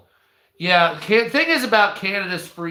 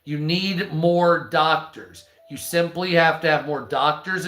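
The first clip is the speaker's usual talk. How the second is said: normal talking voice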